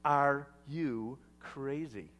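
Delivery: slow, deliberate, word-by-word disbelief; exasperated wife. Acted. Wife to husband leaving their dying son, exasperated. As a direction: ask it slowly as an exasperated wife. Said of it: "maybe rolled her eyes and said".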